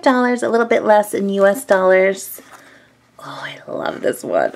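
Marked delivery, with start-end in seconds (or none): 3.2-4.5 whispering. Real, not acted. Squishy review, whispering close.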